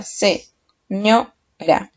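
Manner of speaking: "se, ño, ra" broken into separate syllables. Shown as a demonstration. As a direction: say "se, ño, ra" one syllable at a time. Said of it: "viendo la sílaba".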